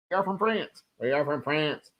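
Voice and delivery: deadpan the "are" like a Conehead; Coneheads impression. Streamer quoting Coneheads to viewers, mock alien voice. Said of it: "Saturday Night Live Coneheads".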